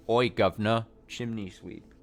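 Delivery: tossed-off Cockney Oi governor; Cockney chimney sweep. Pretend.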